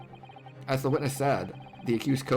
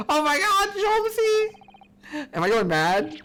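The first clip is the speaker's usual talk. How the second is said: put-on gushing, much higher girlish voice; high gushing young girl; excited girl voiced high; 4 dB louder, much slower than usual. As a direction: squeal it like a starstruck fan. Voicing excited girl character.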